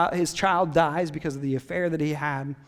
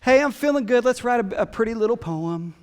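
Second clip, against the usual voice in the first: breezy mock-casual. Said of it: "So it wasn't just this".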